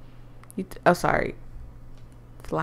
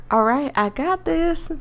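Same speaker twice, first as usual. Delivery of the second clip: put-on country accent; 6 semitones higher than usual. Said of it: "I'm losing the country accent".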